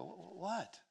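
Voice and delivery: mildly taken aback, stammered question; puzzled. Retold or imitated. Startled husband answers crying wife.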